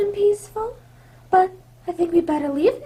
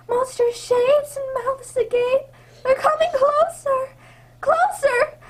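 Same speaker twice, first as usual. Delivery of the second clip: higher, breathless terror building as shapes close in; rising fear; 5 semitones higher than usual. Acted. Princess in the forest sees eyes closing in, rising panic. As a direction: panic creeping up line by line.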